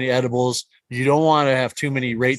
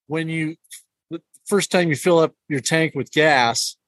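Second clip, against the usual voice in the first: teeth chattering; 2 semitones higher than usual. Real, not acted. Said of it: "my teeth are chattering here".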